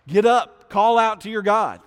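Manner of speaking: high, loud urgent command; captain shouting. Retold or imitated. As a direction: bark him awake. Captain shouting at waking Jonah.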